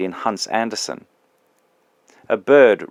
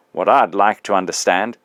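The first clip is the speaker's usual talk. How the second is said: indignant big ghost. Acted.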